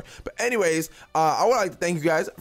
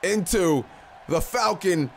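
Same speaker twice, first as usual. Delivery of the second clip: excited shout; 4 semitones higher, slower than usual. Real, not acted. Big move called from top rope.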